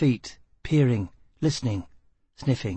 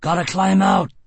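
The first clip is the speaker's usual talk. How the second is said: higher, louder urgent shout; shout over roaring water; 8 semitones higher, 6 dB louder than usual. Acted. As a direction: yell to be heard over rapids.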